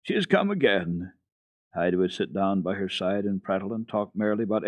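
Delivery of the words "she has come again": very slow grateful exclamation; drawn-out thankful joy; joyful. A narrator's reading. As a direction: blind grandmother greeting the child, slow and joyful. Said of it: "she always exclaimed joyfully".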